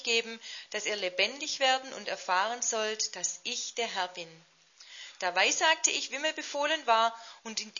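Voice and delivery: measured, solemn Bible reading; solemn scripture reading. Acted. Reads Ezekiel 37 aloud.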